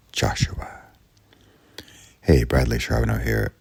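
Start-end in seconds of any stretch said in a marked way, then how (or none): 0.1-0.8 soft unvoiced whisper; whispered name again. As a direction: whisper it like a ghostly call.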